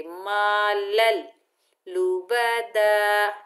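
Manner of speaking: slow मालल लुबदा, the ल doubled without nasal; idgham without ghunna. Shown as a demonstration. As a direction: merge into a doubled ल, no humming. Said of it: "इदगाम होगा लेकिन बगैर गुन्ने के".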